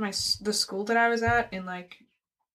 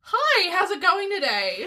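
slow, higher, deadpan shop-assistant greeting; customer service voice; 7 semitones higher than usual. Shown as a demonstration. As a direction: greet like a bored cashier. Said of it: "my customer service voice with completely deadpan face".

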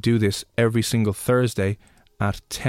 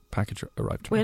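mystical question voice; 10 semitones higher, 7 dB quieter, faster than usual. Pretend. Asking the Magic Eight Ball.

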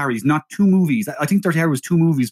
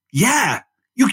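Don Siegel; 4 dB louder than usual. Acted. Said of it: "And Don Siegel has gone".

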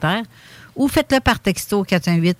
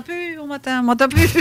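far from mic; 8 semitones higher than usual. Real, not acted. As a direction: voice drifting away from the mic. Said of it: "je m'éloigne de la, du micro".

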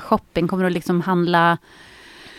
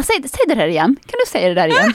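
laughing imitation; 3 semitones higher, faster than usual. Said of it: "Han bara".

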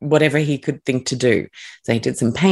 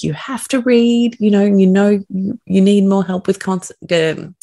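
higher-pitched, worked-up scolding; retold exasperated plea, pushing through the words; upset parent; 6 semitones higher, 3 dB louder than usual. Parent pressing a twelve-year-old son to read, upset. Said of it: "And I got really upset".

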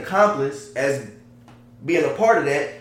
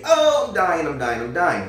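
retold scream. Retelling a shot man on his back in the street, mock scream. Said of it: "he on his back screaming".

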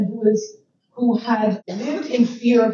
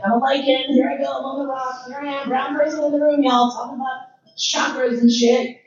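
a touch higher and fast, a hammed-up self-pep talk; mock brave lichen; 4 semitones higher than usual. To a room talking chakras, a mock chirpy higher voice. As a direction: cheerily announce yourself as the lone brown person. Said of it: "So I was like".

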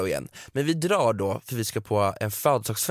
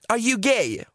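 mock high question; 10 semitones higher, slower than usual. Imitating au pair's question.

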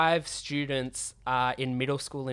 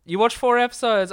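high, loud disbelieving question; can't believe what he just heard; surprised; 9 semitones higher, 9 dB louder than usual. Real, not acted. Friend admits watching his anime.

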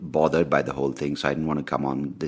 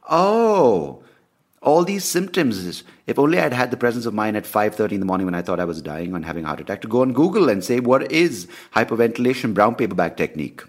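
higher, louder rueful exclamation; exasperated hindsight; 6 semitones higher, 5 dB louder than usual. Retold or imitated. Mocks himself for not googling the symptoms, higher and louder. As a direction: kick yourself over it. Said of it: "and I was like".

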